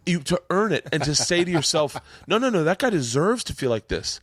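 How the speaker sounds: high, emotional, with a laugh breaking in; moved, laughing through the choke; earnest and close to crying; near tears. Real, not acted. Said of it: "I might actually cry".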